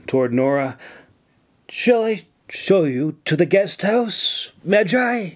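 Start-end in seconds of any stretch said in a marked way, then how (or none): 1.7-5.3 higher-pitched hopeful offer; overly hopeful. A narrator's reading. James offering to escort the mage, overly hopeful. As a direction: offer it a little too keenly. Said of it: "overly hopeful voice".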